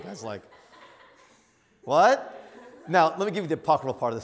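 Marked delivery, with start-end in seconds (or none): 1.8-2.4 loud, high rising "what"; baffled homeowner. Retold or imitated. Homeowner facing a stranger at his dock, loud rising disbelief. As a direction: imitate a puzzled, incredulous stranger.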